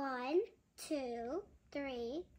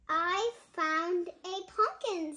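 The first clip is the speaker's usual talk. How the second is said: excited; 3 semitones higher, 4 dB louder than usual. Acted.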